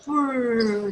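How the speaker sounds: long "purr" sound; imitated cat purr. Shown as a demonstration. Teacher shows the sound a cat makes, mock purring. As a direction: purr it out slowly. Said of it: "sound which cat makes".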